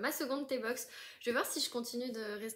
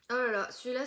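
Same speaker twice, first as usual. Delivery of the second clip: louder, eager exclaim; excited exclaim; 7 dB louder, faster than usual. Real, not acted. Discovering another tea, she exclaims loudly with excitement. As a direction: react with delight to the next one.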